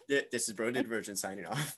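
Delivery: radio sign-off. Acted. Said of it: "You sound like a radio personality".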